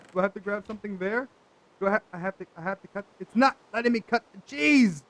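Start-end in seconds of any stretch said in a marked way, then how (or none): 3.2-5.0 rising to a loud, high last word; exasperated complaint. Real, not acted. Player still unable to cut cheese, exasperated. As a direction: let frustration burst out at the end.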